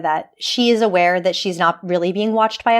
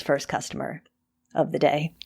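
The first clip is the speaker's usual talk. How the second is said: whisper; 5 semitones lower, 8 dB quieter than usual. Acted. Ominous foreshadowing aside.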